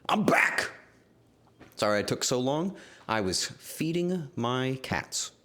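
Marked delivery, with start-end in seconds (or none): 0.1-0.7 loud, high announcement; excited return. Real, not acted. Streamer bursting back in to greet chat, excited.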